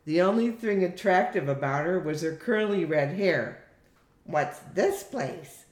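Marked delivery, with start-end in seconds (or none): 4.2-5.6 slow, scornful question; drawn-out disdain. Acted. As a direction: look down on the place as you ask. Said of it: "said Gladys in a scornful voice".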